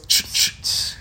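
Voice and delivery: breath spray sound; tongue click. Retold or imitated. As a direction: imitate a mouth spray hiss. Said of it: "like the little, the little air freshener".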